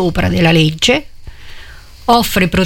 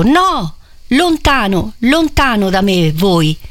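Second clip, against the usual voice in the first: crying out; slower than usual. Acted. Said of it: "gridò questo".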